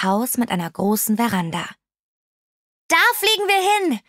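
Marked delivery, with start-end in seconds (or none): 2.9-4.0 high-pitched call; Ausruf. A narrator's reading. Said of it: "rief sie". (mit hoher Stimme gerufen)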